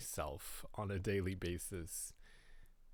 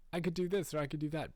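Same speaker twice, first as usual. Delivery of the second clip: inner voice; 9 semitones higher, 4 dB louder, much faster than usual. Retold or imitated. Voicing his own restless thoughts.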